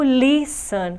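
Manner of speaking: listen with weight on "lis"; stress on first syllable. Shown as a demonstration. Teacher showing the tonic syllable of listen, "lis" stressed. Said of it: "A sílaba tônica é li".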